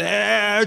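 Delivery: drawn-out "eh" of protest; balking groan. Acted. Listener interrupting the Bible's commands, mock protest. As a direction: cut in with a long objecting noise.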